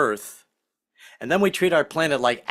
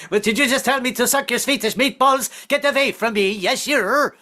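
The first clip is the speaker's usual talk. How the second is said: high-pitched, offended retort; mock outrage; 9 semitones higher than usual. Listener reacting to a misheard phrase, mock outrage. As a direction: play indignant, pitched well up.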